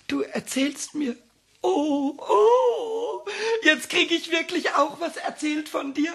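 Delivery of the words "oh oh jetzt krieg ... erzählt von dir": higher, squealing joy; thrilled at getting a story; overjoyed squeal; delighted. Real, not acted.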